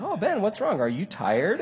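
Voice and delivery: mock-sympathetic needling; teasing concern. Friends needling the driver after a missed exit, teasing concern. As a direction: feign sweet concern to push his buttons. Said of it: "We can just push his buttons".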